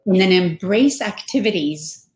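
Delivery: muffled, like through a wall. Real, not acted. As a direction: sound muffled, mic far off. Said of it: "you sound muffled".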